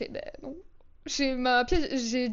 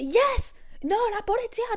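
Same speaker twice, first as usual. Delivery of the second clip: insistent Italian woman; 9 semitones higher than usual. Retold or imitated. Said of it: "elle disait".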